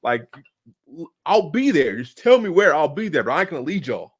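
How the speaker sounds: loud, laughing brush-off; loud dismissive retort. Retold or imitated. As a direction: wave it off loudly, half laughing. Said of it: "it's like".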